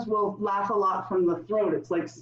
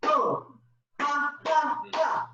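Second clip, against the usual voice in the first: forced, high laughing; laughter yoga laugh; 6 semitones higher, slower than usual. Shown as a demonstration. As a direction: laugh it out on purpose. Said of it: "laughter yoga demo".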